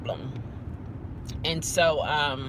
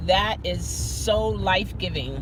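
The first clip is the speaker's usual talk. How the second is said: talking while chewing gum. Real, not acted. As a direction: chew as you speak. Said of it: "not gonna like me chewing".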